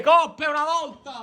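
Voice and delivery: excited cheering. Real, not acted. Cheering on a horse.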